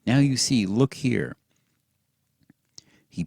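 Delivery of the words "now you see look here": breathless eager pointing; urgent and thrilled; excited. A narrator's reading. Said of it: "He was so excited".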